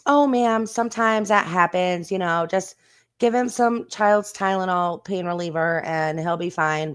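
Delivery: lightly voiced dismissive office staff, bright start; mock receptionist. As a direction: brush the worried mom off lightly. Mother voices doctor's office staff.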